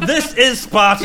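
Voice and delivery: mock-heroic delivery. Quizmaster echoes the player's answer, mildly mock-heroic. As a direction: deliver the famous line with a laugh near. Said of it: "that was beautifully delivered".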